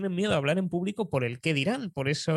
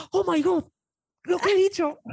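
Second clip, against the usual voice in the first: shocked high exclamation, louder; exclamación avergonzada; 13 semitones higher, 5 dB louder than usual. Retold or imitated. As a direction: gasp it out in embarrassed shock. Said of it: "la chica nada más lo dijo y dice". (exclamación alta y avergonzada de sorpresa)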